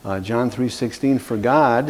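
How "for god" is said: God set apart with emphasis; stress on God. Shown as a demonstration. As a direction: put the weight on God, then pause. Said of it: "I'm emphasizing the word".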